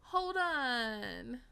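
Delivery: loud, high, drawn-out cry; stunned wail. Real, not acted. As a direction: wail it out in disbelief. Stunned by cliffhanger.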